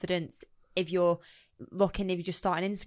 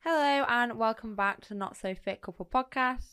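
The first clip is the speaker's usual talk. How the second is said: slow intro with bone prop in; bone prop in mouth; 3 semitones higher than usual. Shown as a demonstration. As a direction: talk carefully around the prop. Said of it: "How do you put it in there?".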